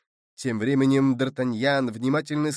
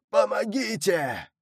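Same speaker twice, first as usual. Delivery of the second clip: higher, slow, drawn-out shout of Помогите; desperate shout for help; 7 semitones higher than usual. Acted. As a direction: scream it as the last hope of a drowning man. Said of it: "жалобный голос".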